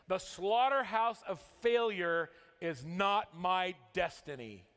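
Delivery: forceful, measured motivational proclamation; stretched key words, falling hard to the close; emphatic recitation. Acted. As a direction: recite it like a creed, landing each phrase.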